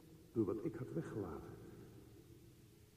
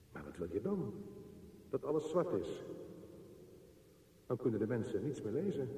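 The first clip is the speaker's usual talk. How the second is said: frightened; 4 dB louder, faster than usual. Acted. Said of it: "Ik werd bang".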